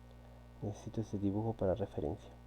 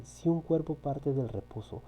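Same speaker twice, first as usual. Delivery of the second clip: slow, deliberate reading of the problem; read more slowly; 3 semitones higher than usual. Shown as a demonstration. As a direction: read it again slowly for the students. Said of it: "ahora lo voy a leer más lento". (lectura más lenta y pausada)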